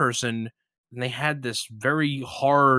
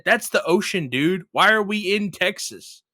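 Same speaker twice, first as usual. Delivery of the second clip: exasperated; 6 semitones higher than usual. Retold or imitated. Retold ranting at friend's guesses.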